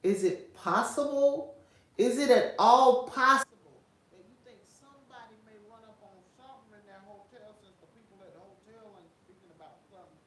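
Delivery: suspicious, probing questions; conspiracy radio host. Pretend. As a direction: lean in like a conspiracy theorist. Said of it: "in my conspiracy theorist voice".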